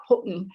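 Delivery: Houghton with a glottal stop in place of the t; local pronunciation. Shown as a demonstration. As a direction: say Houghton the local way, swallowing the middle t. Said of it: "locally you might hear it more like".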